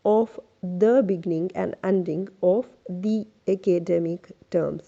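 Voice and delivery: slow, deliberate reading with pauses between phrases; practice read-aloud. Shown as a demonstration. Teacher reads a paragraph for students, slow practice read-aloud. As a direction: read it out slowly as a model, phrase by phrase. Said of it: "एक दफ़ा आपके लिए पढ़ देती हूँ".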